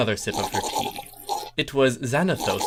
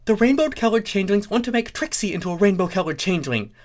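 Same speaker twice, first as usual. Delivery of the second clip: high pony voice; 10 semitones higher, 4 dB louder, faster than usual. Acted. Trixie complains.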